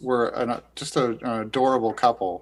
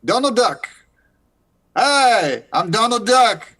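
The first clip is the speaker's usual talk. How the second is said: high, loud Count-style duck voice; the Count impersonating Donald Duck; Count doing Donald Duck; 10 semitones higher, 7 dB louder, slower than usual. Acted. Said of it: "in the form of the Count from Sesame Street doing an impression of Donald Duck".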